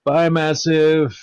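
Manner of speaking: slow, stretched bye; drawn-out goodbye. Acted. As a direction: drag out the goodbye. Repeating bye to donor.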